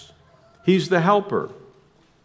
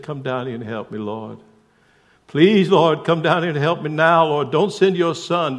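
put-on Southern accent. Laboring woman begging the Lord, Southern accent. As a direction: beg the Lord in a Georgia accent. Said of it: "I've got this southern accent down".

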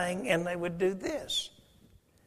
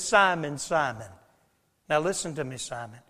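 tender call; 5 semitones lower than usual. Acted. Jesus calling Simon tenderly.

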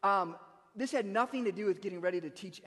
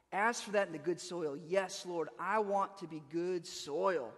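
prayerful musing; slower than usual. Shown as a demonstration. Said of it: "I'm going through and I'm saying".

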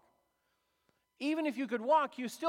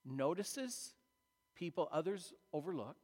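inner thought; 5 semitones lower, 7 dB quieter than usual. Retold or imitated. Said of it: "he thinks".

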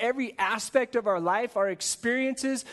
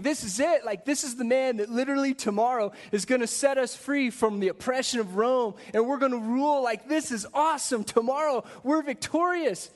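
mock crowd excitement, a touch higher; excited crowd; 4 semitones higher than usual. Jerusalem crowd dreaming of freedom from Rome, eagerly excited. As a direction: voice the crowd's eager hope of victory. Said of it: "everyone's excited at this moment".

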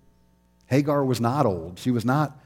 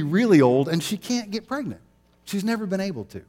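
lightly voiced old Abraham, raised pitch, half laughing; Abraham pleading; 3 semitones higher than usual. Abraham telling God his wife is old, mildly pleading. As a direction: play Abraham protesting to God, half amused.

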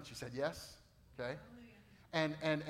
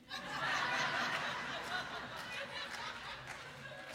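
laughter. Real, not acted. Laugh at engagement story.

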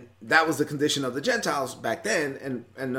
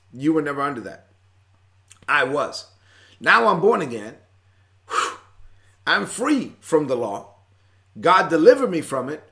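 exasperated Paul. Retold or imitated. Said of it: "He was like".

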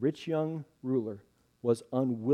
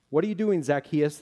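cynical hiss; 3 dB louder than usual. Acted. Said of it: "The cynicism hissed through Judah's teeth".

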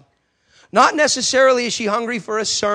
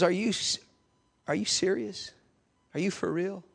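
disbelief; 10 dB quieter than usual. Retold or imitated. Atheist asks in disbelief.

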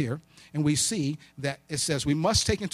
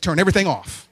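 panicked yell; 2 semitones higher, 8 dB louder than usual. Retold or imitated. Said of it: "ran through the house like a maniac and said".

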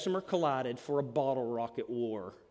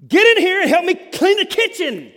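much higher and louder demanding shout; harsh barking tone; 13 semitones higher, 15 dB louder than usual. Shown as a demonstration. Parent ordering the kids to clean, harsh loud shout. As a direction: bark it like a fed-up parent. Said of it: "There is a difference between".

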